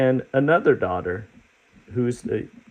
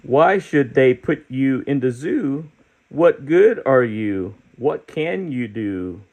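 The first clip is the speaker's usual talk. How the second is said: put-on challenging kids; 4 semitones higher than usual. Children in the book challenging the creature, higher voice. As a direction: dare him to show something.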